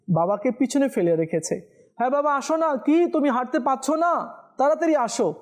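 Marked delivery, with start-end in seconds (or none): 2.0-5.3 higher, impatient son hurrying his father. Shown as a demonstration. Preacher imitating a son rushing his sick father, impatient. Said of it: "এভাবে বলা যাবে না".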